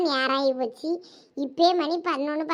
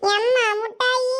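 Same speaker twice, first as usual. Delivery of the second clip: put-on high, drawn-out child's plea; slow, high little-kid wheedle; pleading child; 5 semitones higher, slower than usual. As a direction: beg mum for sweets, stretching it. Child begging mother for sweets.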